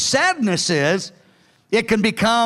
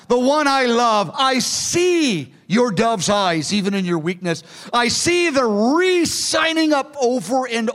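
tender voice of Jesus; 2 semitones higher than usual. Acted. Preacher voices Jesus tenderly to bride.

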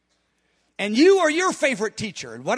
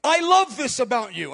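sincere prayer. Shown as a demonstration. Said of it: "I like to say that".

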